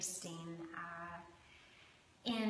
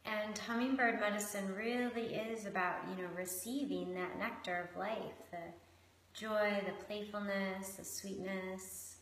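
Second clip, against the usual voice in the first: measured meditation guiding with long pauses; guided meditation. Acted. Host guiding listeners into connection with shark and hummingbird, unhurried meditation voice. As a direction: lead them gently inward, leaving space between phrases.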